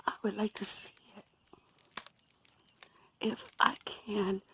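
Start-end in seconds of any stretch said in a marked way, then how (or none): 0.1-1.2 quick soft whisper. Real, not acted. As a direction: breathe it out fast under the breath. Repeats wish, then whispers it.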